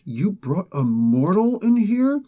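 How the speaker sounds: put-on old man's accusation. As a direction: drawl out the old man's disapproval. Old man scolding Apocalypse.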